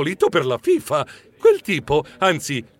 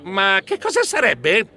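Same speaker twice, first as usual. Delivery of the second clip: higher, hesitant question; mildly flustered; timid stammer; 5 semitones higher than usual. A narrator's reading. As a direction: ask with a touch of nervous doubt. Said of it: "Io balbettai".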